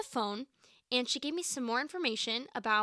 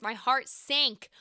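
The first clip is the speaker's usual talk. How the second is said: mock heartbreak; much slower than usual. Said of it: "that's a little dramatic".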